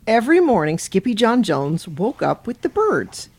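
lively storytime narration; animated bedtime-story reader; picture-book read-aloud. Acted. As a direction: read it to children with a lilting swing.

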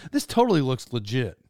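a hint of an airline announcer, key words popping up; hammed-up announcer reading, breaking down at the end; airplane guy. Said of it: "how this guy talked".

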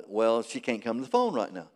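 low, soft, quick mock child reply; lightly voiced boy, keeping it down; hushed little boy. Little boy answers caller asking for mother, lightly hushed.

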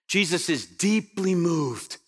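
slow, understated heartache; tender sorrow. Acted. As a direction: voice the sentimental reading, slowly and with feeling. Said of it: "here's what we often think".

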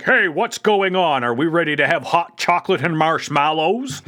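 lightly voiced oblivious leader; mock clueless Optimus. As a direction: play him as totally unaware.

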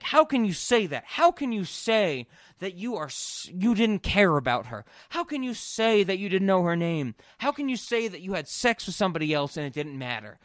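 hammed-up wife hammering each How; mock accusing wife. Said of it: "the woman keeps going with".

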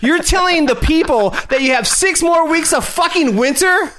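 heated shouting, pitch climbing high; yelling in outrage; angry rant. Real, not acted. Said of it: "calm yourself".

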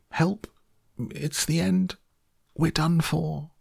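very high, thin-volume cry of doom; panicked shout. A narrator's reading. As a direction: cry for help high up, in short bursts. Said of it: "And Grandpa Joe shouted".

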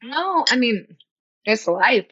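talking through a mouthful of oatmeal; mouth full. Real, not acted. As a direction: speak with your mouth full. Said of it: "Just talking with my mouth full".

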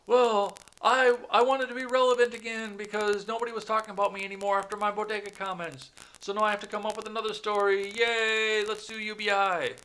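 high, loud squeaky parody statement; mock Andrew Yang. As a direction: lampoon a needy politician begging for attention. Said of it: "That wasn't actually his statement".

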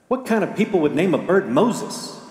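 high, scoffing disbelief; mocking laugh. Burglar scoffing at the parrot's name, high and mocking. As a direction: scoff at the silly bird name. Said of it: "the man laughed".

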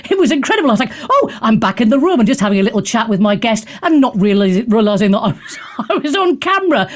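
giggling through the words; laughing. Real, not acted. Host laughing about being caught on camera, giggling. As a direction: laugh while you tell it. Laughing at her own on-air mishap.

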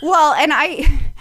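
slow, laughing start to an answer; chuckling as she begins to explain. Real, not acted. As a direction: laugh through the opening words. Laughs while answering the host.

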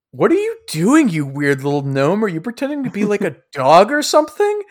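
high-pitched incredulous questioning; hammed-up disbelief, pitch leaping; baffled, scornful Sidroy. Sidroy questions the gnome on all fours, scornfully baffled.

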